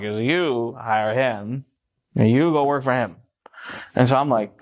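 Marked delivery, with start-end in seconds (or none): 0.2-3.2 put-on slow, drawn-out drunken order; lightly voiced drunk, stretching the words; drunk friend. Drunk friend brokering a job between two pals, slow and deliberate. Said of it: "really drunk".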